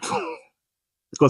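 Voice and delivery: very high surprised c'est quoi; shocked squeak. Real, not acted. Interviewer reacting to the helmet fight story, shocked squeak. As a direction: yelp in disbelief.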